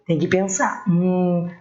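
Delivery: normal talking voice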